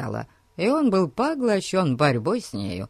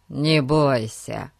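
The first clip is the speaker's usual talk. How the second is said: reassuring; 3 semitones lower, slower than usual. Acted. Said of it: "сказал Фати успокаивающе".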